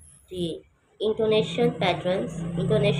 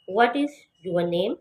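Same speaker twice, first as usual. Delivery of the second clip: slow wh-question with a falling end; falling tune; much slower than usual. Shown as a demonstration. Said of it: "what को बुलंदी से पढ़ना है और नेम ... fall करके".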